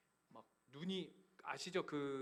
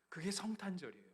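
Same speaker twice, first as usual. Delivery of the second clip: emphatic declaration; 4 semitones higher than usual. Acted. Sermon climax restated.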